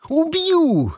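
very high, stretched threatening cry; desperate one-word roar. A narrator's reading. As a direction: howl the threat. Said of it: "взревел Сиприт".

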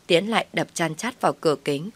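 plain reading voice

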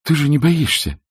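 high, rising protest in disbelief; exclaiming. A narrator's reading. Scarlett protesting to Ashley, exclaiming high in disbelief. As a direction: cry it out, refusing to believe it. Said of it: "воскликнула она".

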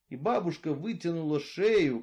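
ordinary delivery

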